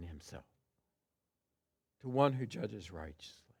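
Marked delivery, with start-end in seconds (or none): 2.0-3.5 hushed reverent whisper; whispered words of trust. Acted. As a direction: breathe it like a secret prayer. Reverent trust after the cry.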